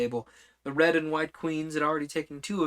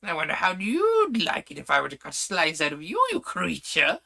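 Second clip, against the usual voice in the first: thick suety voice; 4 semitones higher, 5 dB louder than usual. Acted. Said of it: "thick, suety sort of voice".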